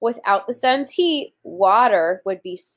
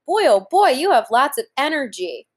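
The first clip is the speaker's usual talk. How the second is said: put-on grown-up praising a child; 3 semitones higher than usual. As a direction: cheer the kid on like a proud parent. Adult praising child's energy.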